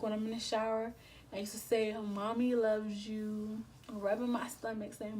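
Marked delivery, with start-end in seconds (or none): 1.9-3.6 slow, louder drawn-out loving words; mother cooing to her bump; tender cooing. Retold or imitated. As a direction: stretch it out lovingly, as to your unborn baby. Voicing herself talking to unborn baby.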